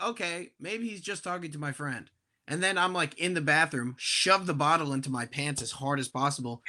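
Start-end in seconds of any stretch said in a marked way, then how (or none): 0.0-2.1 much softer, muttered to himself; hushed private thought; quietly wondering in the stall; inner thought. Retold or imitated. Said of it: "And I'm like".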